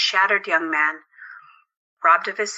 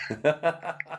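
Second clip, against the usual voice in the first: soft laugh; 3 semitones lower, 7 dB quieter than usual. Acted. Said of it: "Alexandros laughed".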